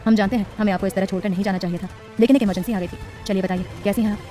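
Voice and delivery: husband tenderly asking his wife how she feels; lovingly. Acted. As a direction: gently ask how she is. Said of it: "प्यार से बोला".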